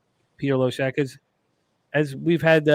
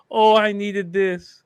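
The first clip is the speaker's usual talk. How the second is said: laughing through tears; 2 semitones higher, slower than usual. Retold or imitated. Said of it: "She got".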